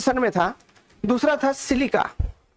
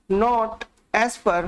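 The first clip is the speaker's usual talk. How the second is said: words drawn out very slowly for notes; slow dictation; much slower than usual. Shown as a demonstration. Teacher dictating notes to students, very slow. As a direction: spell it out slowly so students can write. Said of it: "या फिर ऐसे लिखिए".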